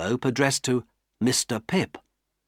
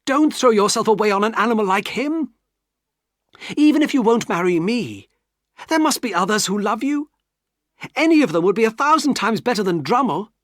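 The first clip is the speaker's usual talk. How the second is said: high, loud impassioned pleading; desperate plea; 10 semitones higher, 5 dB louder than usual. Acted. Pip begging Estella not to marry Drummle, desperate plea. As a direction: urge her with all his heart. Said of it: "lifted my head and cried".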